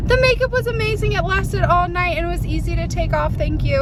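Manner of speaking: high, fast, excited client voice; gushing bride. Retold or imitated. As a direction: rave about the makeup like the bride. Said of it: "She was like".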